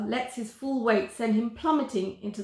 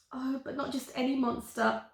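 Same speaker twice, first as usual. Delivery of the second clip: softer, higher, teasing lilt; mischievous smile; 3 semitones higher, 3 dB quieter than usual. Acted. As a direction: tease him with a sly smile. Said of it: "the girl smiles mischievously".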